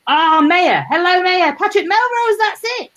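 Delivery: high, bright excited hello; real delight at remembering; real excited recall; delighted greeting. Real, not acted. Greeting a viewer, remembering title.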